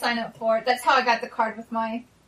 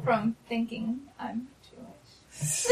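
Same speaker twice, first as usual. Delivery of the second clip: laughing; 7 dB quieter, much slower than usual. Real, not acted. Laughing at the socks.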